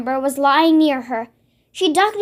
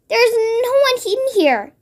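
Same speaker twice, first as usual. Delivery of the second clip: higher, nervous giant; nervous stammer; 7 semitones higher than usual. Acted. BFG hiding Sophie, nervous stammer. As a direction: fumble the words in fear. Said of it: "he stammered".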